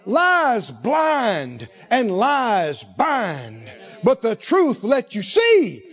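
very slow, sung-out preaching cry; preaching at full force. Real, not acted. Preacher drives home his point to the congregation, slow and chanted. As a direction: ring it out from the pulpit.

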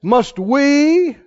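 hammed-up stage Moses; mock dramatic Moses. Preacher staging Moses' big production, mock. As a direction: announce it like a show. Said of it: "Drum roll, please".

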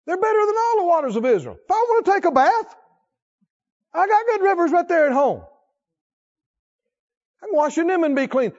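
loud, high scornful boast; proud angry Naaman. Acted. Preacher acting furious Naaman scorning Israel's waters, loud. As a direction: sneer at Israel's rivers.

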